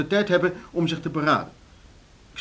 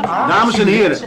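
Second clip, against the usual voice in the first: louder, higher, drawn out slowly; slow call for order; 7 semitones higher, 9 dB louder, slower than usual. Acted. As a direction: stretch each word to silence them. Chairman calls again, slower.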